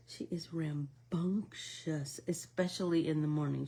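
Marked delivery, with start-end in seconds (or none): 0.1-2.2 laughing. Real, not acted. Laughing about the puppy.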